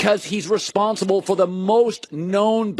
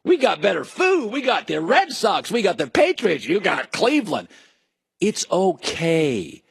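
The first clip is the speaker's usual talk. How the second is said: mock bragging. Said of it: "he was just bragging like".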